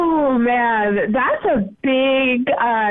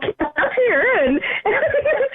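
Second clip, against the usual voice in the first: laughing while talking; 7 semitones higher than usual. Real, not acted. Laughing through her words.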